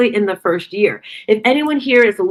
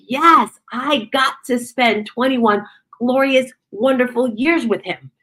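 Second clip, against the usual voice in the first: bright retold joy; 4 semitones higher, slower than usual. Retelling joy about her son.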